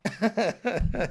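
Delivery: quiet laugh after an outburst; soft chuckle. Acted.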